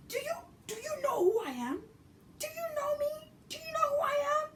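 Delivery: high, crisp Kenyan English demand; over-enunciate like a proud Kenyan woman; very high, precise Kenyan accent. Retold or imitated. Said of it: "Kenyans have very proper English".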